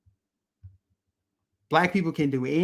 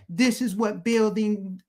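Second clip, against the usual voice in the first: mocking AOC; 4 semitones higher, slower than usual. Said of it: "where she's like".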